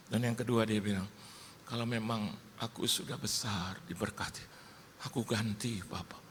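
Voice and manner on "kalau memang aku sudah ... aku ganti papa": hushed imitation of a child's promise; quiet promise. Child promising to repay Papa, retold in a quiet voice. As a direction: soften until the last word nearly vanishes.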